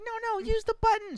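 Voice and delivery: high, squealed correction; frantic play-acted instruction to a child; mock urgency.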